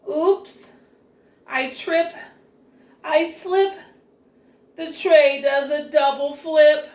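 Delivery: tumbling with the tray, voice climbing; alarmed oops. Acted. Nancy trips carrying the tray.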